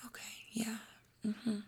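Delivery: high, soft, near-whispered murmurs; just hold the space for them softly; gentle holding space. Shown as a demonstration. Someone cries in front of her and she soothes softly. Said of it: "I just hold the space".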